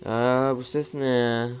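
startled at a strange sound; surprised. Real, not acted. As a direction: react to an odd noise with slow surprise. Hears a strange game sound.

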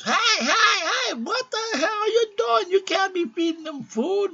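very high, loud mock nurse yelling; shrieking nurse. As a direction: screech at them like a scandalized nurse. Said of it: "the nurse comes in and goes".

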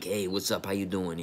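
a little gravel, out of the side of the mouth; lightly voiced grungy tough guy from Boston; gravelly East Coast swagger. Shown as a demonstration. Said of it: "I threw a little gravel in my voice".

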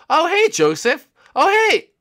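very high, loud falsetto hello; squeaky greeting. Pretend. Someone greeting Joseph in the game, squeaky falsetto. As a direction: greet a player in a put-on squeak.

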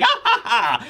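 Buggy's carefree laugh; mock laugh.

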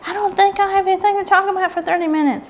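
high, quick mock protest; telling her husband. To her husband, a quick, high-pitched mock protest. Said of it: "That's what I tell my husband".

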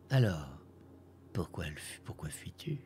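cold toneless whisper; icy whisper. A narrator's reading. The green spectre whispers to the boy from behind, icy. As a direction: breathe it out like a ghost. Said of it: "souffla une voix glaciale, impassible".

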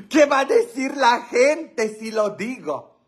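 high-pitched mock dismay; mock scandalized. Comedian teasing viewers about a naughty joke, mock scandalized. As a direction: wail it high in playful scandal.

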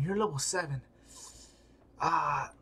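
normal talking voice

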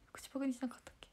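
soft unvoiced whisper. Real, not acted. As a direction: whisper it so it won't be heard. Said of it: "whispered check to sister". (ささやき声で)

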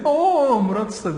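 loud, high greeting holler; shouted reply. Retold or imitated. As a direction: re-enact shouting back to a friend. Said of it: "ona bağırarak cevap verdim". (bağırarak selama karşılık verme)

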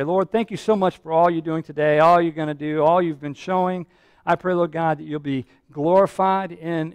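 low, gentle praying voice; prayer. Real, not acted. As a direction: talk humbly to God, a little under your preaching voice. Leads a prayer.

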